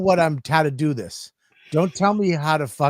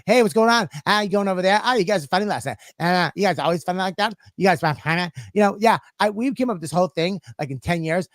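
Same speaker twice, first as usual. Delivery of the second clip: mock chatty nurse; 3 semitones higher, faster than usual. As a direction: play the chatty nurse, a bit mocking. Mocking chatty traveling nurses.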